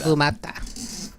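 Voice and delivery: slow, drawn-out invocation; occult incantation. Pretend. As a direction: intone it like summoning from a cursed book. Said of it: "trying to invoke something from the Necronomicon".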